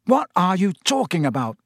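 heated, exasperated question; angry. Acted. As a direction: demand an answer angrily. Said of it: "said Harry angrily".

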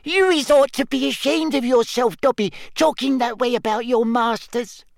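high scolding elf. Acted. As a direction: reproach him sharply. Winky scolding.

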